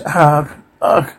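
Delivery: two short, soft mock cries; brief, contained grunted "argh"; acted cries of pain. Reader acts out hard blows, soft mock pain cries. Voices victims of attack.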